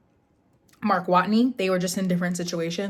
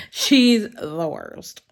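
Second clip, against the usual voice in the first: slow, laughing through it, louder; laughing gripe; 6 dB louder, much slower than usual. Real, not acted. Repeating the gripe about Lynette to viewers, laughing. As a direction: crack up as you say it again.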